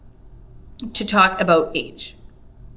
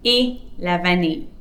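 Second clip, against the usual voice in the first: slow example. Shown as a demonstration. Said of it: "I could say".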